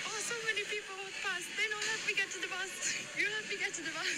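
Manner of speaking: high, lightly voiced old lady pleading; a hint of a frail old lady; old woman voice. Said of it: "And she was like".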